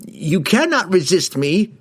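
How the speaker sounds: slow, high, forceful wizard roar. A narrator's reading. Wizard overpowers the halfling, roaring. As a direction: roar to overpower his will. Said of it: "Kessel roared".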